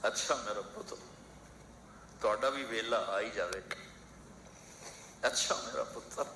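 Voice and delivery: put-on a heartbroken old man answering quietly; hurt father's reply. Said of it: "اور آگے باپ کہہ رہا تھا".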